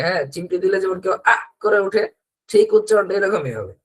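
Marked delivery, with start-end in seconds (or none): 1.3-1.3 short, sudden "ah" as if pinched; a quick demonstrative yelp; mock pinched yelp. Teacher imitates someone pinched from the side, brief mock yelp. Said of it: "পাশ থেকে কেউ চিমটি দিল আপনাকে".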